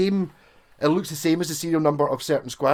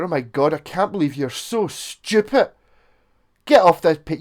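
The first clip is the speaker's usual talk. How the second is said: mock snob; 2 semitones higher, 4 dB louder than usual. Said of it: "there is a snobbery in it".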